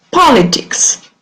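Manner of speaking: politics with stress on the first syllable, pol. Leading a pronunciation drill for learners to repeat after: stress on first syllable of politics. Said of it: "the stress is on the first syllable".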